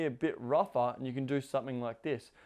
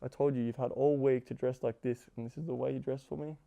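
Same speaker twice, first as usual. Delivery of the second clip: mock disappointment. Shown as a demonstration. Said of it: "in a fun way you're saying it".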